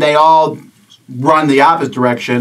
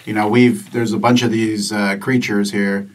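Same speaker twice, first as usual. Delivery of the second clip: lightly voiced party leader, low and hesitant; a hint of a serious leader, feeling for words; Bo Ring; 4 semitones lower, 3 dB quieter than usual. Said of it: "How's he talk?".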